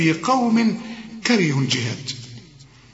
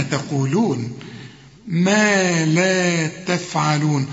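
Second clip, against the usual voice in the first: slow recitation; much slower than usual. Shown as a demonstration. Teacher recites verse slowly.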